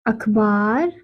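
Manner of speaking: very slow, long pauses between words; word by word dictation. Shown as a demonstration. Teacher dictating the sentence to children. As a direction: dictate each word for writing. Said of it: "पहला जो शब्द है".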